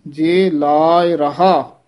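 ਜੇ ਲਾਇ ਰਹਾ drawn out slowly with small breaks; slow, deliberate ਜੇ ਲਾਇ ਰਹਾ; measured pausing. Shown as a demonstration. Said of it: "ਇੱਥੇ ਠਮਕ ਲਾ ਦੇਣੀ ਹੈ".

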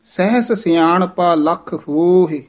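slow recital with ਸਹਿਸ as "sehs"; ਹੋਹੇ long-o, faint falling end; sehs, long hohe. Shown as a demonstration. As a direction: draw out ਹੋਹੇ at the close. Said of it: "ਇਹ ਸਿਹਾਰੀ ਦਾ ਉਚਾਰਨ ਹੈ".

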